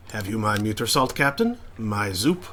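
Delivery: a hint of a French accent creeping in; tentative French chef accent; starting a French accent. Shown as a demonstration. Player trying a French accent on the chef. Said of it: "I am starting to give him a French accent".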